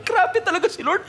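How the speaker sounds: high, laughing with delighted amazement; amazed laughter. Acted. Sarah laughing in amazement at God, high and delighted. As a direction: laugh in wonder at the promise kept.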